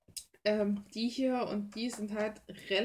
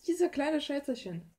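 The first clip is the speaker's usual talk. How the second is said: higher, louder, slow cutesy coo; 6 semitones higher, 6 dB louder than usual. Real, not acted. Crafter showing off cute paint bottles, cooing. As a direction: coo over them like tiny pets.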